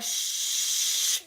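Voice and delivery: a sharp whispered shh; shushing whisper. Retold or imitated. Mocking everyone who has gone quiet about a rapper, whispered shh. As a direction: hush everyone with a breathy shh. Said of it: "Everybody like".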